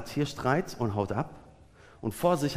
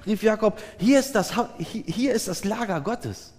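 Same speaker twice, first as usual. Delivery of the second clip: animated, higher-pitched scripture reading; Bibellesung; 6 semitones higher than usual. A narrator's reading. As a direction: read the Bible passage aloud to a congregation. Reads Bible passage aloud. (lebhaft vorgelesene Bibelstelle)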